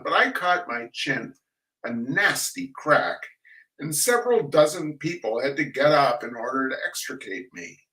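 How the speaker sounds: dry, measured reading of a humorous essay; story reading. A narrator's reading. Reader sharing a Benchley essay with the audience, dry and measured. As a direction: read it like a wry old memoir.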